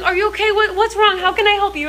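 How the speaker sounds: high, concerned imitation of a British helper; imitating a worried older British man; sweet British man. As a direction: play the kindly stranger offering help, high. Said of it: "this super sweet, um, British guy".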